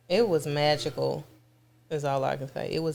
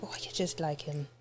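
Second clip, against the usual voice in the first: imitating her voice; 3 semitones lower, 12 dB quieter than usual. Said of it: "the voice she was using".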